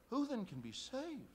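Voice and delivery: high, loud, slow question; astonished disciples. Acted. Disciples asking Jesus in shock, high and loud. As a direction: voice the disciples' alarm.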